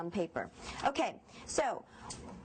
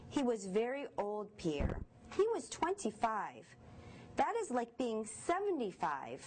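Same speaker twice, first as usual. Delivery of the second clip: story narration; 4 dB quieter than usual. A narrator's reading. Teacher reads story to class.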